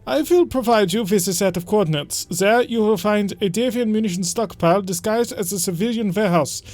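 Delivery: a hammed-up German accent, stiff and formal; bad German accent. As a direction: read the noble's summons in a bad German accent. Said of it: "just explaining the bad German accent".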